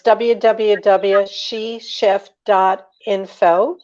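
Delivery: slowly spelled-out web address. Real, not acted. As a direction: give the address slowly, piece by piece. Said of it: "You gotta say it very slowly".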